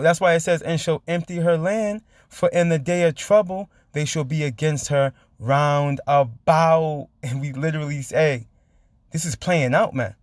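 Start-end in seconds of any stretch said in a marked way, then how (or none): 0.6-7.1 slow, drawn-out Bible reading; scripture reading. A narrator's reading. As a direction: stretch out each phrase of the verse. Reads scripture aloud.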